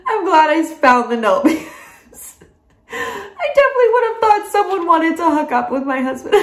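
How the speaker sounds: high, helpless teary laughter on the words; laughing through tears. Real, not acted. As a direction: crack up while still crying. Laughing through tears about the note.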